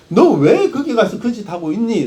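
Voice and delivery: a touch of divine rebuke; mock reprimand, understated; mild scolding. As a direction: lightly act out God telling someone off. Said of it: "하나님이 야단치시니까".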